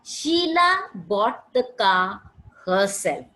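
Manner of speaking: slow example sentence. Shown as a demonstration. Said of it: "She's emphasizing".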